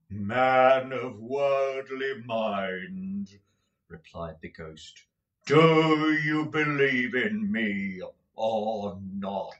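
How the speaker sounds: very slow, grave spectral questioning; solemn ghost. Acted. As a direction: draw each word out like a judgement.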